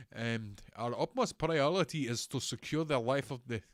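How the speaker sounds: a faltering attempt at an Indian accent; half-hearted Indian accent reading a police quote; mock Indian accent. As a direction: read the news quote in a put-on Indian accent. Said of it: "what the fuck accent is that? Why can't I do an Indian accent anymore?".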